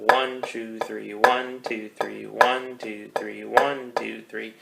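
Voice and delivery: even three-to-a-beat counting, leaning on "one"; triplet count. Shown as a demonstration. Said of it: "thinking of triplets or three notes to the beat".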